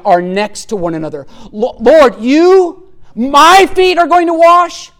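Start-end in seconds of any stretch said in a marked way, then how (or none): 1.5-4.9 high, loud, shocked protest; emphatic protest. Retold or imitated. Peter recoiling as Jesus comes to wash, shocked. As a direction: stress "you" and "my" in disbelief. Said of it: "That's what he's saying".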